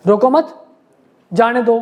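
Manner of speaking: "रोको मत" as one phrase, a clear break, then "जाने दो"; pause after मत. Shown as a demonstration. Teacher quoting a sample law to students, pause after मत. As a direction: split it after मत, each half firmly stated. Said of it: "कानून ये कह रहा है".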